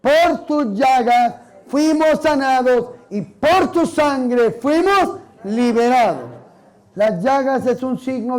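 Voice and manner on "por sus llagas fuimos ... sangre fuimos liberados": slow, emphatic quoting of scripture; scripture recitation. Acted. Preacher reciting Isaiah to the congregation, slow and emphatic. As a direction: measure out the verse phrase by phrase. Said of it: "¿Qué dice?".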